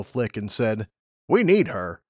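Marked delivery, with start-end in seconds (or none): 1.3-2.0 higher, matter-of-fact lab pony; brisk scientist explaining rules; lab unicorn. Acted.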